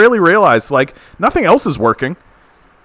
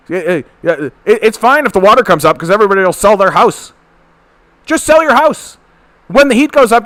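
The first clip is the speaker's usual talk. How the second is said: high, sing-song mock of a clueless politician; sneering mimicry, pitched way up; 5 semitones higher, 3 dB louder than usual. Streamer mocks what the politician says, high sneering voice. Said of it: "these are the things that he actually says out loud".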